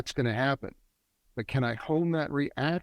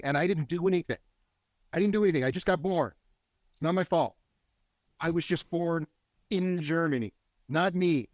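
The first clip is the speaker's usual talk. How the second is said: higher-pitched acted plea of innocence; mild defensive protest; 5 semitones higher, faster than usual. Coach voicing a German disowning inherited guilt, mildly defensive. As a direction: lightly plead that it isn't your fault.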